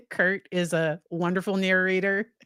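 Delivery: mock praise, deadpan sarcasm; sarcastic. Shown as a demonstration. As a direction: say it with heavy sarcasm. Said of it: "and this is sarcasm".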